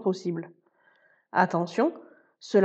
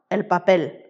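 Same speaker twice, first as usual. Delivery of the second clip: "papel" stressed on PEL, pa-PEL; stress on last syllable; 3 semitones lower than usual. Shown as a demonstration. Spanish teacher showing learners the final accent, PEL stressed in "papel". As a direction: land firmly on the PEL of "papel". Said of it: "l'accent tonique tombe sur la dernière syllabe".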